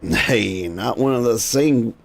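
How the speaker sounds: put-on gruff old salt grumbling about the dead; an old cannon boy griping at the initiate; lightly voiced grumpy old seaman; old sailor.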